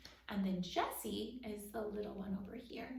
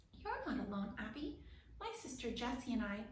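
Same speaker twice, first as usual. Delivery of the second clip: soothing. Acted. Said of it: "Rip said soothingly".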